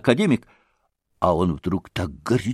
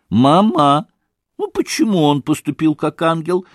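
thin little voice; 3 semitones higher than usual. Acted. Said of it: "послышался опять голосок Лизе".

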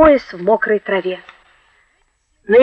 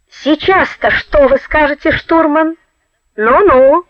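higher, mocking call; taunting shout; 6 semitones higher, slower than usual. A narrator's reading. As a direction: tease them as you flee. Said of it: "крикнул".

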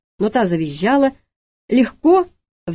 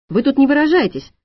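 louder, higher indignant rebuke; angry rebuke; 6 semitones higher, 4 dB louder than usual. Acted. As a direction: snap at her to watch her language. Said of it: "обозлилась Алла". (возмущённо, громче и выше)

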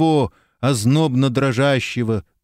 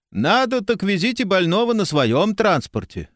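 haughty city voice; 7 semitones higher than usual. A narrator's reading. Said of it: "надменным голосом столицы".

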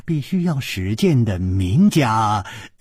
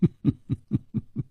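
faint laugh; 6 semitones higher, 6 dB quieter than usual. A narrator's reading. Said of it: "淡淡地笑着说".

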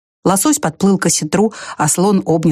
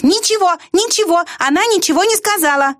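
high, lightly shouted lark; a bird calling down in protest; lark's cry; 11 semitones higher than usual. A narrator's reading. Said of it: "кричал жаворонок". (высокий птичий выкрик)

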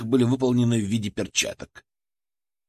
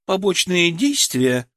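correcting; 6 semitones higher, slower than usual. Acted. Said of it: "поправила девушка".

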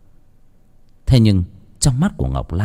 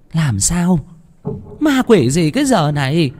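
higher, sharp, scolding snap; scolding old woman; 7 semitones higher than usual. A narrator's reading. Grandmother scolding the cook, sharp and higher. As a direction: brush off the silly fright. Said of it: "chạy lại quát".

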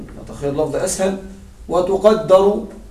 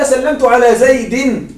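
slow quoted line; 2 semitones higher, slower than usual. Shown as a demonstration. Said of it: "قال لك".

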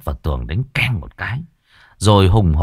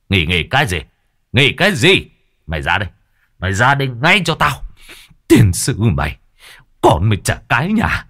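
enraged father scolding; 2 semitones higher than usual. Acted. Enraged father berating daughter.

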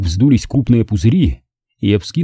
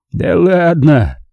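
slow, higher, wry brush-off; weak smile; 7 semitones higher, much slower than usual. A narrator's reading. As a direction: Pete shrugs off the praise with a weak smile. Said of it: "вяло улыбнулся Пит".

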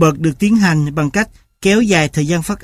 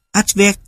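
"Advert" with the stress on the last syllable, vert; final-syllable stress; 3 semitones higher than usual. Shown as a demonstration. Lecturer giving a Russian example of free stress, final-syllable stress on "Advert". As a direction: lean on the end of "Advert". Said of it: "ở âm tiết cuối".

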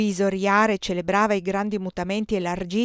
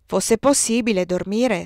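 sospirando; 3 semitones higher, 4 dB louder than usual. Acted. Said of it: "sospirò Robert".

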